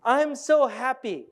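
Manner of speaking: slow, drawn-out mock happy line; happiest voice. Shown as a demonstration. Audience exercise, saying happy words with a frown. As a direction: try to sound happy while frowning. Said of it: "in the happiest voice".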